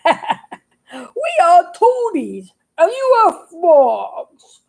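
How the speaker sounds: lightly voiced smug toadies, laughing at him; mocking toad. Toads laughing off the frog's plea in mock pride.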